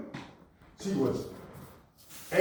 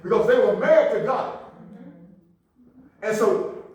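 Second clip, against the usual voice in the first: raised, punchy sermon delivery; forceful preaching; 8 semitones higher, 8 dB louder than usual. Acted. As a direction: preach it out to the congregation.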